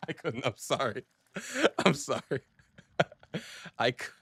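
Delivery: giggling through the apology; cracking up at his own joke; laughing. Real, not acted. Streamer laughs at his southern bit, laughing.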